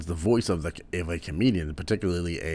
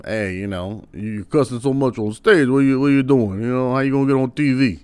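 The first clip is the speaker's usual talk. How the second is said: put-on higher and louder, fast scolding old-timer; Rodney Dangerfield impression; 6 semitones higher, 7 dB louder than usual. Old comic scolds Eddie Murphy, high and pinched. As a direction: nag the young comic about cussing on stage. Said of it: "Rodney Dangerfield also told him".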